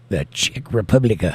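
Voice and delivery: REPUBLIC ending in a stray "uh" sound; accidental vocal artifact. Real, not acted. Host greeting a viewer in the Czech Republic, accidental extra vowel after REPUBLIC. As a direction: let the voice run on past the end of REPUBLIC. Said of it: "That was a vocal artifact, not an A on the end".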